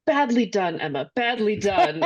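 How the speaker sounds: lightly voiced scolding quote, drawn out at the end; Mister Knightley. Quoting the film's rebuke of Emma, mildly put-on scolding. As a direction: quote a reproach, slowing on the last words. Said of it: "when Mister Knightley is like".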